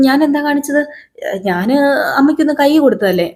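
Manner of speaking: high, lightly voiced young girl protesting; innocent girl. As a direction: play the surprised innocent kid.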